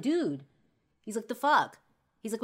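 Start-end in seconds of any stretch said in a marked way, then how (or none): 0.0-0.4 exasperated scolding. Retold or imitated. Friend scolds her for yelling. 1.3-1.8 high, loud, incredulous outburst; acted fed-up outburst; exasperated scolding. Friend scolds her for yelling.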